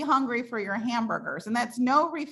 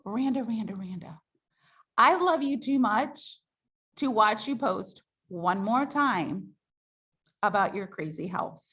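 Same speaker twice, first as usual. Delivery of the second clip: tender appeal; 3 semitones lower than usual. Shown as a demonstration. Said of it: "Or you might say".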